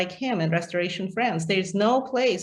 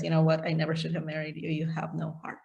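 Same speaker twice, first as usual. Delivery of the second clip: cold quiet rejection; 6 dB quieter, faster than usual. Retold or imitated. Chabert rejects his wife.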